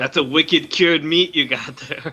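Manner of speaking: a slow mock Boston-Italian accent; Italian impression. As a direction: tease about the cured meat in a hammed-up accent. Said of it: "Wicked Italian".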